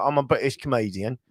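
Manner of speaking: lightly put-on British accent. Friend shows another voice, British accent. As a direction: try on a British voice. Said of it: "I take British voice too".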